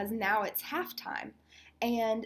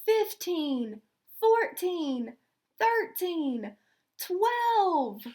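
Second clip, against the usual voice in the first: countdown climbing higher each number; 6 semitones higher, much slower than usual. Acted. Crowd counting down the final seconds, rising excited countdown. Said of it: "The crowd counted down".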